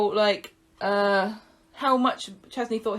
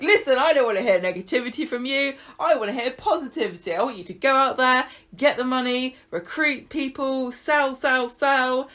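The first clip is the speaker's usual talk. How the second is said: higher, louder Welsh motivational pep talk; mock Welsh sales coach, quick and insistent; imitated Welsh accent; 4 semitones higher, 3 dB louder than usual. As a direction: gee them up in a put-on Welsh accent. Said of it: "Loved his accent".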